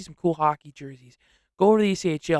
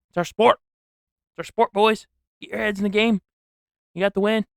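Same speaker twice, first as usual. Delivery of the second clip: raised, louder mock pep talk; rallying the team; 4 semitones higher, 5 dB louder than usual. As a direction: urge the players on like a fired-up fan. Scolding and rallying Team USA.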